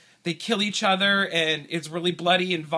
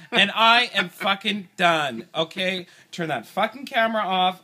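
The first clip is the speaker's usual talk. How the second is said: fed-up outburst; 3 dB louder than usual. Real, not acted. Husband quits the quiz angrily.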